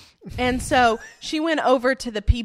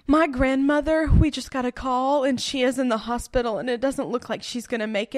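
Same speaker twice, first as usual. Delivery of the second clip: acted worried plea; 3 semitones higher than usual. Friend to festival staff, mildly acted worried plea. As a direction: lightly fake the bad news about grandma. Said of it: "she put on her acting cap".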